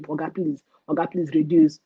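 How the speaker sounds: a touch of begging the tax man; mild mock begging. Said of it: "start begging them".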